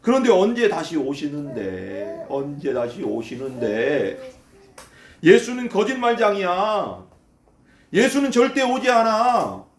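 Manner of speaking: slow, drawn-out sneer; snorting scorn. Acted. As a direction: stretch the endings out in open mockery. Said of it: "콧방귀를 뀌면서 이렇게 말하는 거예요".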